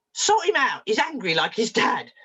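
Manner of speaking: high-pitched, brusque demand; exasperated mother. Retold or imitated. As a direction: imitate a mother handing over her problem child. Retold mother dumping her son.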